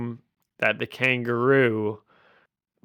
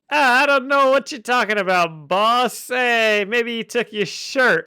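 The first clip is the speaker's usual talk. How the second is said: high, hammed-up wise-guy voice; exaggerated high-pitched henchman banter; mock underworld goons; 9 semitones higher, 4 dB louder than usual. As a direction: play a shady card player mouthing off to a stranger. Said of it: "And these guys are like".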